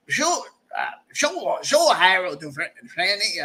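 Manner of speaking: a second, milder try at his voice; T-Boss impression. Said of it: "I think that's how he talks".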